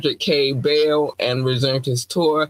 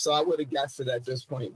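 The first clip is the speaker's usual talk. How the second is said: muffled and quieter, as if through a wall; 9 dB quieter, faster than usual. Real, not acted. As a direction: speak from behind a wall, muffled. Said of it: "Your mic sounds like muffled sounds".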